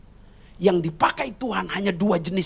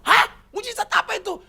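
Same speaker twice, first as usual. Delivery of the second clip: astonished; 12 semitones higher than usual. Retold or imitated. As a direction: react in disbelief. Surprised listener.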